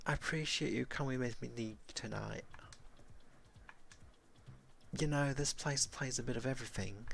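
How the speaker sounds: a hint of a friendly companion; lightly voiced, explaining the bar to a guest; Sam, friendly companion.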